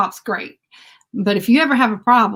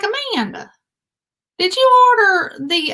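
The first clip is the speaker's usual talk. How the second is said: higher, urgent calling; urgent call to friend; 10 semitones higher than usual. Retold or imitated. Calling Amanda about the email, higher and urgent. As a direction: rush to tell her friend. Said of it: "I called Amanda up".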